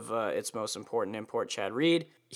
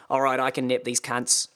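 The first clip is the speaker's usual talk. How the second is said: put-on lightly done Australian accent, confident; mild Australian self-talk. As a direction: say it to yourself like an Aussie racer. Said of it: "he says it to himself in Australian".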